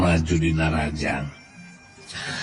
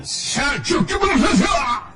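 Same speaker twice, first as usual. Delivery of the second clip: high-pitched burst of fight sounds; imitated blows. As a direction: shout out the impacts in a high voice. Narrator imitates blows landing. (niron sora neunggeul, luhur)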